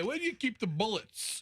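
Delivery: put-on New Jersey mobster voice and accent. Retelling a prank at a grocery store, the speaker questions staff in a new jersey mafia accent. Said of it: "some like New Jersey mafia sound".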